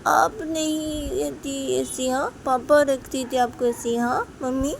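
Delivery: put-on little girl voice. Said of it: "Ruhi को बोलती कि".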